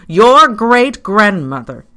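slow, high, loud and laboured; panted accusation. A narrator's reading. Pyecraft blames visitor's great-grandmother while struggling, panting. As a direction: heave the words out accusingly. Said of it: "he panted as he did so".

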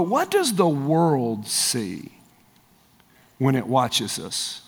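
sinking to a low, slow hush; hushed question. Real, not acted. Preacher hushes the congregation with a weighty, quiet question. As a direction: let the question fall quiet and heavy.

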